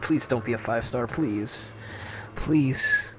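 soft desperate pleading; hushed pleas, please not a five-star; anguished denial. Real, not acted. Begging before the result.

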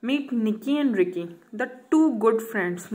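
slow, deliberate reading aloud; slow textbook read. Acted. Teacher reading the textbook line to students slowly. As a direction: read each word out slowly for the class.

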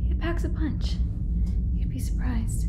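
sci-fi crew member. Acted. Sci-fi roleplay, hunting the alien.

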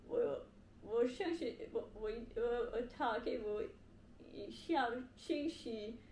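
ordinary talk

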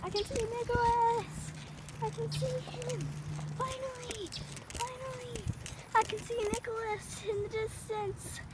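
high, drawn-out relief; excited. Real, not acted. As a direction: lift up, relieved to spot him. Spotting friend after long ride.

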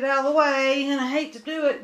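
laughing. Real, not acted. Reluctantly discarding the picture.

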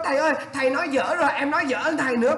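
fast student protest; quick playful student whine; mock student complaint. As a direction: tease the teacher quickly. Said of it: "Bạn nói, nói".

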